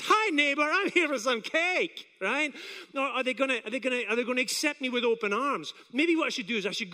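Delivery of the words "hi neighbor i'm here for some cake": high, loud, drawn-out hello; weird neighbor. Acted. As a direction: overdo a slow, high neighbourly greeting. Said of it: "that weird neighbor that says".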